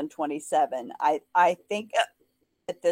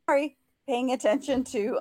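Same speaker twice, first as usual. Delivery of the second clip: hiccup breaks the phrase; talking through hiccups; 5 semitones higher than usual. Real, not acted. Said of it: "hiccups again".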